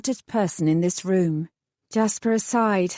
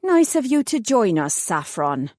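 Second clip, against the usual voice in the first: a cold, sarcastic put-down; icy sarcasm. Acted. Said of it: "She shot me an icy stare".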